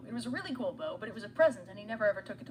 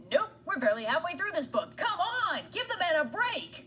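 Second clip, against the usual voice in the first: mock outrage; 7 semitones higher than usual. Narrator protests to the audience.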